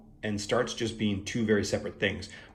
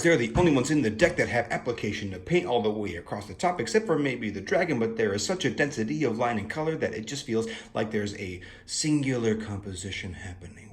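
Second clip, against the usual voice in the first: rapid fire pace; faster than usual. Pretend. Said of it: "I can't keep up that pace".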